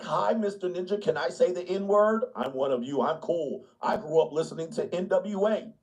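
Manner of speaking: lightly voiced try-hard white liberal; chummy overeager pandering; hint of a wannabe-cool ally; eager liberal. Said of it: "Liberal white people be like".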